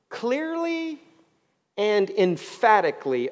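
CLEARLY pitched high and drawn out, then EMPHATICALLY punched; emphatic stress. Real, not acted. Preacher pointing congregation to these words, "clearly" high and held, "emphatically" stressed.

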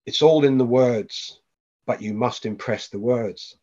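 slow, drawn-out dream voice, only lightly voiced; a faint hint of a ghost calling from the background; ghostly voice. A dream voice repeating a riddle to the father, slow and ghostly. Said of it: "the voice that was like a ghost in the background".

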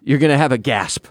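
upbeat sponsor read; host reading a sponsor spot, lively ad delivery. Acted. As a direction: sell the watch, confident and smooth.

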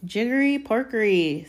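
fierce fake conjuring. A narrator's reading. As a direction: cast a pretend spell fiercely. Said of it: "in a fierce voice".

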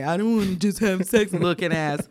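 lightly mocking, sing-song take on his line; mock him a little as you read it. Reading his text back to friends, lightly mocking. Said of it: "Was the mocking way".

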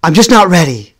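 put-on boy dodging the teacher's dare, flustered; flustered protest. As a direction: plead your way out. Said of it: "And I was like".

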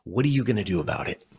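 quick, matter-of-fact question from mom; calm challenge. Retold or imitated. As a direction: put it to the kid briskly and calmly. Mother's calming question, first take.

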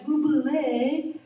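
slow, lightly put-on French accent. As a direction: stretch the name out with a hint of French. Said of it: "here we go again".

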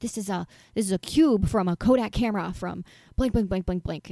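half-hearted full-out rant of a know-it-all grandmother; mock rant. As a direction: rattle off the facts as a mild imitated rant. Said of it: "she would go on a rant, just a full-out rant".

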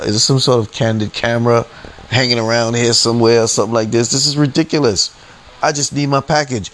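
exasperated protest. Retold or imitated. Customer to clerks holding his package hostage, exasperated. Re-enacted quarrel at post office.

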